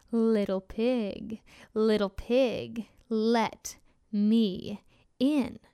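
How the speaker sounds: slow, heavy wolf voice; menacing hungry wolf, drawn out. Acted. Wolf voice in story.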